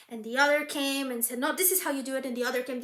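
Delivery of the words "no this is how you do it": bossy correction. Acted. Next rival contradicts.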